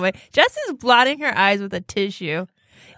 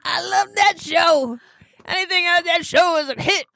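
laughing; 9 semitones higher than usual. Real, not acted. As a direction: talk through a laughing fit. Laughing fit while talking.

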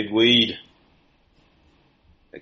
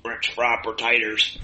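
lightly voiced Sling Blade character; Sling Blade impression. Sling Blade quote after Billy Bob question.

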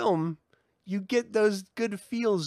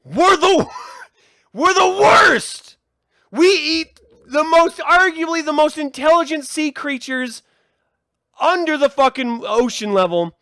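loud, high outraged ranting; furious rant about octopus; angry rant; 9 semitones higher, 9 dB louder than usual. Real, not acted. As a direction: rage at what we eat. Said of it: "I'm just getting really mad".

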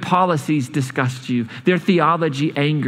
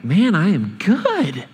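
mock self-satisfied, rising high on I am good; preening prophet, half-sung boast; smug Jonah; 5 semitones higher than usual. Preacher voicing Jonah gloating over Nineveh, mock smug. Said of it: "you would think Jonah would be like".

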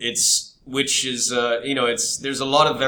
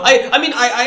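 laughing; 13 semitones higher, 9 dB louder than usual. Real, not acted. Laughing mid-sentence.

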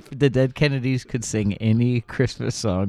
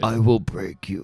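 put-on slow, menacing Drago accent; barbarian. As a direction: threaten like a Soviet boxer. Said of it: "Dolph Lundgren".

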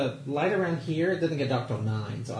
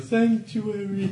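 dramatic voice; 6 semitones higher, much slower than usual. Shown as a demonstration. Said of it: "say it that way from this point forward".

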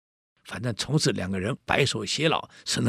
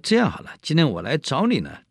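flattering official; 6 semitones higher, 6 dB louder than usual. Acted. County official flatters the scholar.

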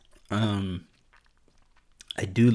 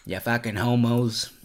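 put-on rough Boston accent quote; movie Boston accent; 3 semitones higher than usual. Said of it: "That's from, uh, The Departed".

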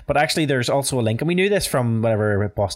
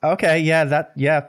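higher, slow, hammed-up polite doubt; mock unconvinced; 6 semitones higher, 3 dB louder, slower than usual. Host imitates locals hearing Americans claim Irish roots, slow mock doubt. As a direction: drag out the okay like you don't buy it. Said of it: "You're literally like".

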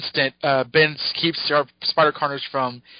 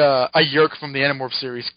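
ordinary talk

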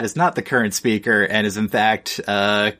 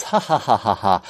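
laughing. Real, not acted.

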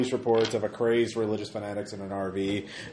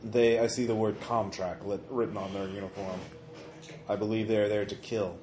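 telepathic Rat King voice; 3 dB quieter than usual. Acted. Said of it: "He's saying".

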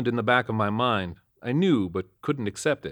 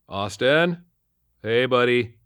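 calling out; 3 semitones higher, 5 dB louder, slower than usual. A narrator's reading. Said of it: "I called from the car".

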